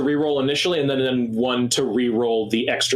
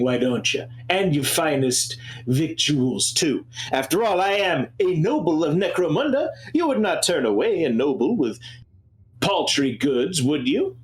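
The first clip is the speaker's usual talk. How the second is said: snooty Necromundan noble. Acted. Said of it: "I hate doing that voice".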